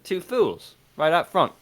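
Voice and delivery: high Cockney urchin voice; pleading Cockney street kid; old london cockney. Acted. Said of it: "Cockney boy".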